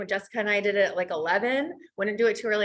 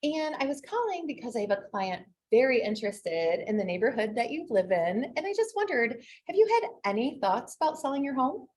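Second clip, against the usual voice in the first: sweet as pie on the phone; sugary sweet. Acted. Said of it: "like, so sugary sweet".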